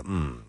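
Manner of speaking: low creaky hum; a soft, low fried mm; vocal fry hum. Retold or imitated. Mimicking the agent's creaky hum, low and soft. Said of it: "every time she go".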